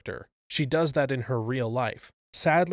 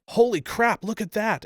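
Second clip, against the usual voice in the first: higher, louder startled exclamation; excited shout; 9 semitones higher, 4 dB louder than usual. A narrator's reading. Storyteller shouts to friends about the meteor, excited shout. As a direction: call out in amazement. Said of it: "I shout".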